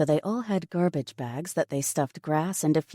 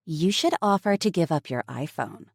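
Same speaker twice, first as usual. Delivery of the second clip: deadpan; 2 semitones higher than usual. Acted. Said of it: "In a perfectly deadpan tone".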